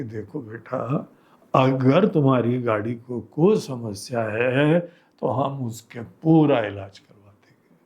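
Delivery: retold calm, fatherly coaxing; soothing reassurance. Retold soothing of an enraged man.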